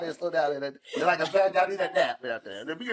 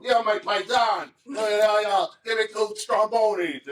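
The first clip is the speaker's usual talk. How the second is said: slow, higher, calling out on the phone; hint of phone guy; 5 semitones higher, slower than usual. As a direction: lightly mimic the guy on the phone. Imitating man on phone.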